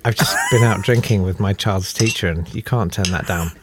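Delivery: talking while eating; words round a bite of food; mouth full. Real, not acted. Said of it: "I'm really sorry I'm eating".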